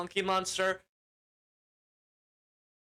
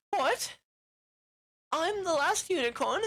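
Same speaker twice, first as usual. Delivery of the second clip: high, incredulous squeak of surprise; shocked disbelief; 10 semitones higher than usual. Retold or imitated. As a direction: play it like the news just landed. Unicorn learns she is the last.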